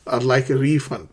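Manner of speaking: "refund" pronounced REE-fund, front syllable strong; careful model of "refund" as REE-fund; stress on first syllable. Shown as a demonstration. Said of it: "stress the first syllable".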